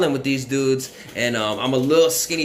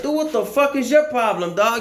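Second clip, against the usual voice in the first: imitated defiance; 11 semitones higher than usual. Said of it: "And I'm like".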